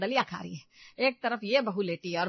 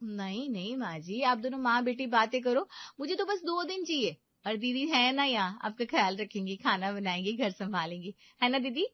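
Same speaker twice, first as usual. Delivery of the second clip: sweetly scheming daughter-in-law; 4 semitones higher than usual. Acted. Meenu continues.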